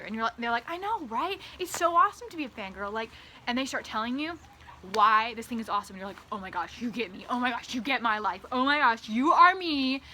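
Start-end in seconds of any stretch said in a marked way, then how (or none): 0.7-2.9 gushing fangirl. Pretend. 6.3-10.0 building fangirl gush. Pretend. Gushing to new fangirl friend.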